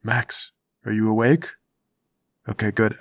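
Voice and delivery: quiet check on a sleeper; hushed. Real, not acted. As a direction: keep it low so he stays asleep.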